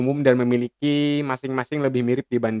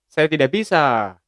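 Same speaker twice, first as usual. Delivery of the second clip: brisk Ambon-accented "Saya tidak bisa", a bit higher and louder; 4 semitones higher, 4 dB louder than usual. Shown as a demonstration. Teacher demonstrating Ambon dialect to classmates, firm Ambon accent. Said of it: "kalau orang Ambon bilangnya".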